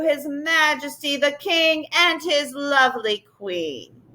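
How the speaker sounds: stately court announcer, drawn out; ringing announcement. A narrator's reading. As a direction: announce the royal couple to the hall. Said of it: "his voice rang through the hall".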